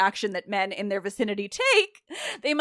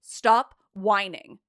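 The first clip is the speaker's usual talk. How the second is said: slow, only mildly raised rebuke; understated acted yell; much slower than usual. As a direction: scold them with each word set apart. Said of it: "she yells at them".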